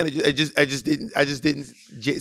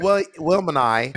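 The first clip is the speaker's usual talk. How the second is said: Australian impression. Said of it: "She's Australian".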